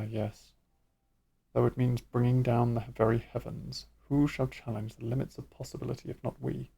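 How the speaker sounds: quiet, menacing villain musing; brooding villain voice. Acted. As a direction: mutter a scheming monologue.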